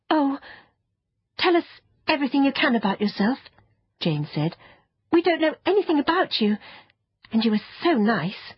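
fast, high-pitched coaxing; excited child begging to hear everything; eager girl. Acted. Eager child begs for information.

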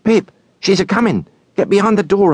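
high, kindly hushed warning from Joe; a gentle blacksmith hurrying the boy to hide; Joe's voice. Acted. Joe warns Pip in story.

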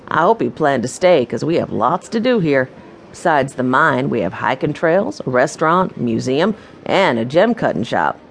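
a hint of a folksy proprietor welcoming guests; welcoming mine owner. Mine owner greeting new guests, lightly voiced and welcoming.

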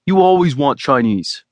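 put-on teasing complaint to his girlfriend; mock bark. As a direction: snap it out in playful annoyance. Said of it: "I barked".

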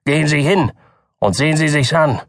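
cutting, angry doctor. A narrator's reading. Doktor Keene angrily breaks with the Button family. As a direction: dismiss him with scorn. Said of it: "antwortete der Doktor schneidend".

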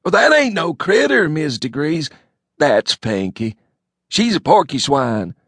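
a folksy hick rambling on. A narrator's reading. Elmo telling his cousin the news in a loud bumpkin voice.

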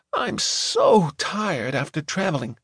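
lightly voiced tired niece; a hint of a weary girl. A narrator's reading. Gemma yawns, tired.

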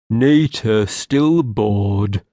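slow, simple-minded moan, lightly voiced; a hint of a bored, moaning creature. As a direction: drag the words out in a dull moan. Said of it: "he moaned".

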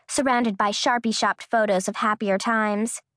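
usual speaking voice

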